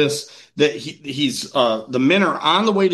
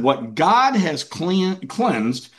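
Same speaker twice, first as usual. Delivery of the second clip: slow, measured and grave; a hint of a solemn voice from heaven; solemn divine voice; much slower than usual. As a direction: lay down the words slowly as a holy command. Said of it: "He said".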